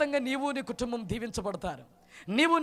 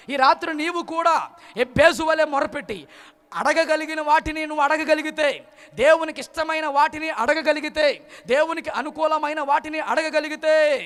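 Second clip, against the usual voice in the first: raised, insistent sermon delivery; fervent preaching; 4 semitones higher, 5 dB louder than usual. Acted. Preacher urging listeners to pray like Jabez, fervent preaching. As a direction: urge the congregation on in ringing phrases.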